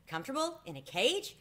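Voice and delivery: high, shocked disbelief; a mouse appalled by the thought of a cage; horrified. A narrator's reading. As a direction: recoil at the very idea. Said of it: "Ralph was horrified".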